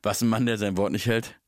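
dubbed gangster, deep on the last word; deadpan movie gangster quote; Al Pacino. Retold or imitated. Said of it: "Ich möchte einmal den synchronisierten Scarface zitieren".

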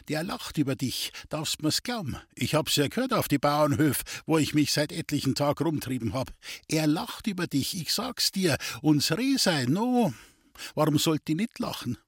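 a hint of a wheedling gypsy fortune-teller; sly gypsy. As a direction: tease him with the rival's luck. The gypsy Duli goads Friedel.

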